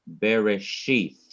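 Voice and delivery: Bereshith slowed, with weight on the final "shith"; stress on last syllable. Shown as a demonstration. Teacher showing students where the accent falls, stress on last syllable. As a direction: lean on the end of Bereshith. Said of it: "the last syllable is to be what".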